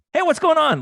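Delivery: a loud, bright hey, what's going on; overly friendly greeting. Retold or imitated. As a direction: greet him like an old friend to hide the nerves. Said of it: "I'm like".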